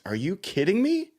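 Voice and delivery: high, elated outburst with a whoop; real excitement. Real, not acted. Host celebrating his team's win with co-host, excited. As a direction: let out a thrilled, laughing celebration of the win. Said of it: "I'm so excited".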